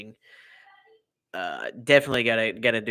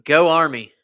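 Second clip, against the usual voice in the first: mock cheer; 4 semitones higher, 9 dB louder than usual. Repeats cheer when asked.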